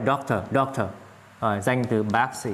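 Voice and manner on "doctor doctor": DOCtor with the first syllable stressed. Shown as a demonstration. Teacher drilling doctor for learners, stressed first syllable. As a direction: punch the start of "doctor". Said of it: "Nhấn".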